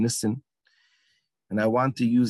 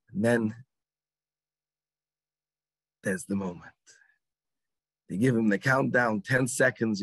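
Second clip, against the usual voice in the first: ordinary talk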